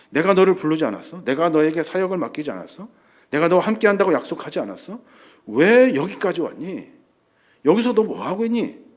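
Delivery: mild reproach. Acted. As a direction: press each question like a disappointed father. God reproaching Elijah, acted.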